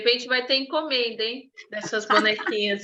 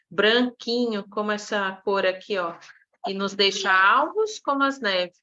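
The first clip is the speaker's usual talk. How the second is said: put-on storytelling to children. Shown as a demonstration. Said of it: "esse é como eu gosto de contar".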